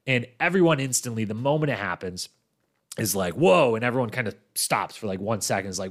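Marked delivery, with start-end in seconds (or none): 3.3-3.7 retold shocked whoa. Whole cast reacts to the slap.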